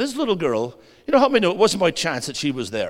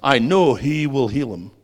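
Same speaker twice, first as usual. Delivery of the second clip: confident faith; slower than usual. Retold or imitated. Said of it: "She didn't say that. She said".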